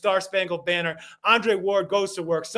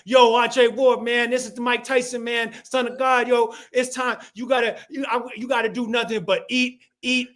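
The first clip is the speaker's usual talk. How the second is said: Mike Tyson impression; 3 semitones higher than usual. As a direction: pump him up like Tyson before a fight. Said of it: "And he's like".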